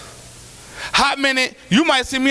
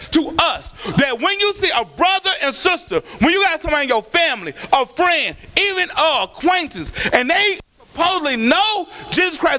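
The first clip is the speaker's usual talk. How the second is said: rising fervent preaching; preaching to the church about duty. Acted. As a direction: drive the point home to the congregation. Preaching at full force.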